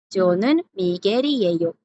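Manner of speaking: "Miguel y ello" flowing together, L as tapped R. Shown as a demonstration. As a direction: say "저는 Miguel y ello" with Migeri-eyo joined. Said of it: "así es como sonaría".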